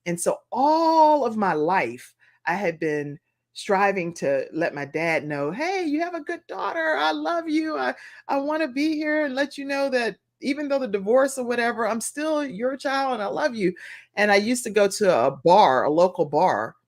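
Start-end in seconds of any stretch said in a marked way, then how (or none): 5.5-13.7 earnest plea. Retold or imitated. Voicing her plea to her father.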